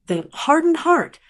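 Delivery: bitter mocking echo. A narrator's reading. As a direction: repeat her words like they sting. Narrator echoes the cruel caption.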